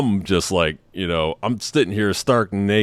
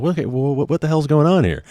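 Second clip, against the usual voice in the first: higher, flustered stammer; startled confusion; 7 semitones higher than usual. Retold or imitated. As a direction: caught off guard and rattled. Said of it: "And I'm like".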